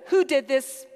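loud demand for the culprit; demanding crowd. A narrator's reading. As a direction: call it out like an indignant townsperson. Angry townspeople demand a culprit.

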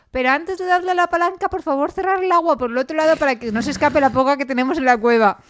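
lightly voiced Saced; imitating Saced. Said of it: "me acordaba de Saced diciendo".

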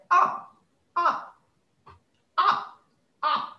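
high, far-off call of "up, up"; distant yelling. Retold or imitated. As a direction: shout it faintly from up the slope, pitched high. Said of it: "And it sounds like".

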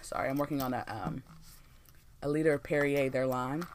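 right after a sip of water; talking just after a sip; while sipping a drink. Real, not acted. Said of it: "let me take a sip right now".

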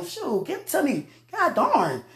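high, laughing, insistent; playfully demanding. Pretend. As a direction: demand it, grinning. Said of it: "I ain't playing".

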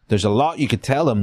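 lightly voiced Southern officer; Frank Underwood accent. Officer recruiting a local guide, light Southern accent. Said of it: "That's a Frank Underwood accent".

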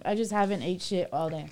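eating while talking; talking through a mouthful; mouth full. Real, not acted. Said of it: "I'm sorry we're eating".

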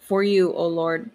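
measured scripture reading with long pauses; prayer reading. Real, not acted. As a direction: read the prayer out solemnly, phrase by phrase. Reads a psalm aloud.

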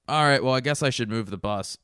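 high, loud offhand sigh of a voice; finally giving in; resigned driver. Retold or imitated. Bus driver deciding to move the bus, high and loud. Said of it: "the bus driver goes".

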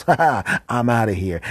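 high, loud mocking laugh then a quip; cheeky escaping fly. Last fly taunting the spider, high and loud. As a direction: taunt as you flee. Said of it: "looks back at the spider and goes".

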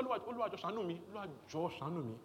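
softly pleading, a touch of mock desperation; mock begging prayer. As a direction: beg God for mercy, lightly acted. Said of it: "these ṣàánú prayers".

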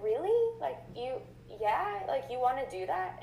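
high, rising disbelief; waitress voiced with high surprised disbelief; amazed. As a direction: ask it like you can't believe it.

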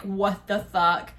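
drawn-out, stunned exclamation; stunned disbelief. Retold or imitated. Couple as the bed collapses, drawn-out disbelief. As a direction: stretch it out in disbelief.

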